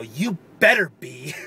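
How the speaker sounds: slow, mock-menacing warning. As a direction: drag it out like a playful threat. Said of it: "mean, menacing voice".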